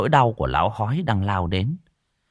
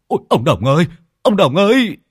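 loud cry, climbing higher on the repeat; alarmed howl; 7 semitones higher, 6 dB louder than usual. A narrator's reading. Onlookers see the old man crash, howling his name. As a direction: call out in rising alarm. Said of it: "rú lên".

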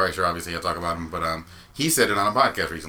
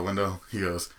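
usual speaking voice

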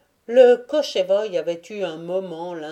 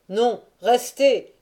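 slow, raised protest from the crowd; crowd cry; 5 semitones higher, 6 dB louder, slower than usual. A narrator's reading. Voices in the crowd stopping the officers, crying out. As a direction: call out "stay" over a crowd, drawn out. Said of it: "s'écrièrent des voix parties de la foule".

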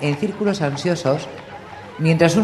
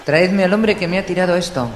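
higher and louder, barking a command; furious order; 6 semitones higher, 4 dB louder than usual. A narrator's reading. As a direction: order it, ignoring her. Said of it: "ordenó Joffrey".

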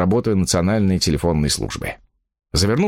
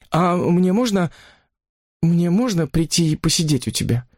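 pleading woman; 8 semitones higher than usual. Acted. Mistress asking to visit her lover, pleading. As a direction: ask timidly, pitched high.

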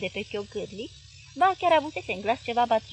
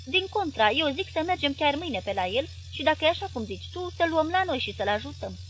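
higher, louder moral scolding; earnest wife; 6 semitones higher, 4 dB louder than usual. Acted. Wife lecturing her husband on helping kin, loud and earnest. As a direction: preach kindness to him firmly.

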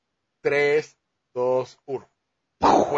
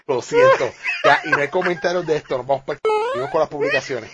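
laughing; 6 dB louder than usual. Real, not acted. Giggling fit during recording.

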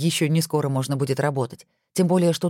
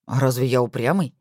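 offended; 4 semitones lower than usual. Acted. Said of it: "обиделся Максим".

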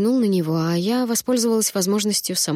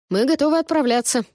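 raised, announcing voice; loud announcement; 7 semitones higher than usual. A narrator's reading. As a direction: call it out to everyone. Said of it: "громко объявил Лукас".

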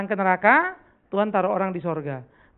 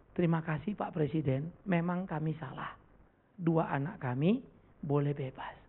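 tearful thanks; 3 semitones lower, 6 dB quieter than usual. Retold or imitated. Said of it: "Dia nangis ya".

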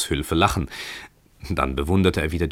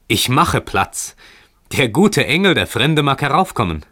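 high, raised, joyful exclamation; excited calling out; 8 semitones higher, 5 dB louder than usual. A narrator's reading. Heinrich letting the good angel come up, excited high call. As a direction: cry out the welcome, building in pitch. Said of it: "rief dieser".

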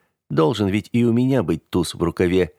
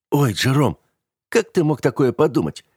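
higher, hammed-up wounded innocence; theatrical mockery; 6 semitones higher than usual. A narrator's reading. Heathcliff mockingly imitating Jerome, theatrical and higher. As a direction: mimic him, overplaying the hurt. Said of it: "театрально произнёс он, подражая мне".

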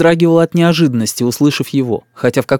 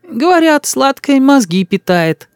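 higher, slower doting granny voice; fussing old woman; 12 semitones higher, slower than usual. A narrator's reading. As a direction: coo over the boy like a village granny. (старушка причитает над мальчиком)

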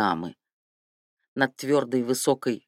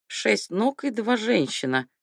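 repeating slowly; 9 semitones higher than usual. Acted. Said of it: "повторил, чтобы не забыть".

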